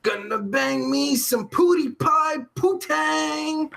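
hammed-up horny gushing; lusty excited quote. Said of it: "I was like".

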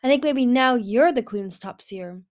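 slow, loud and pleased; happy. A narrator's reading. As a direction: tease her happily, drawing it out. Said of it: "nudged her happily".

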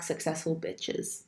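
slow breathy trail-off; whispered. Real, not acted. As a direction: whisper the end slowly.

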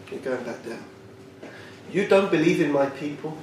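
low, hushed divine decree; God's stern voice. Acted. God sending Eliyahu back down, low and grave. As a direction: pronounce it low like God passing sentence.

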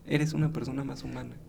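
breathy unvoiced whisper. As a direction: whisper it like a secret. Confiding alcohol wisdom.

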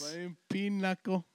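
high, slow, loud mock toast; slow hammed-up celebration; mock hick drawl. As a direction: ham it up like a rich hillbilly.

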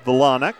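Vilanek with the stress on the second syllable. Shown as a demonstration. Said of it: "The accent on the second syllable there".

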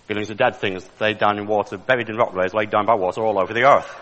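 low-voiced Australian accent impression. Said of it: "say it in an Australian accent".

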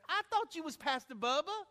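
high, loud, rising question; astonished questioner. Retold or imitated. Man questions the pastor's identity, loudly astonished. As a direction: imitate a man blurting it in surprise. Man in waiting room reacts, surprised.

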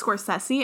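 Scorsese as "skor-SESS-ee"; short E and an S sound in Scorsese; disputed pronunciation. Retold or imitated. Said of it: "I heard somewhere that it's".

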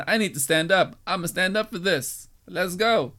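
Tiffany impression with vocal fry. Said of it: "I'm just doing a Tiffany impression".

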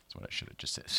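whispered aside. Real, not acted. Sheepish aside after a mix-up.

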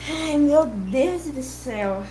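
exasperated sigh. Real, not acted. Stumped by the opponent's long argument.

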